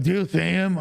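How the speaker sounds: put-on a quick echo of her drunk whine; drunk girl voice. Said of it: "That's, like, how she talks when she's drunk".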